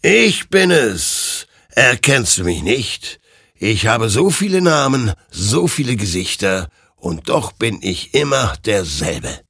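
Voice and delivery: a hint of an ominous ghost rider; lightly voiced ghostly creature. Ghostly rider reveals itself to Hektor, lightly ominous.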